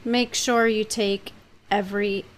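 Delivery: quiet warning. Acted. First mate warns the captain in private, softly. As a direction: lean in and caution him softly.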